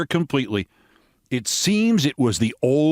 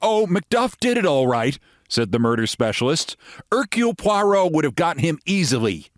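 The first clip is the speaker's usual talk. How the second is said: American lady voice; 7 semitones higher than usual. Acted.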